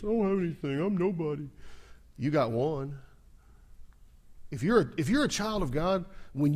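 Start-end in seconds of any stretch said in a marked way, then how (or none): 0.0-1.5 1 mock self-pitying.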